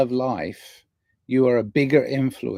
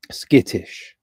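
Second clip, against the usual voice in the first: a breathy little whisper; whispered skittish; 4 dB louder than usual. Pretend. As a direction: hush it like telling a secret.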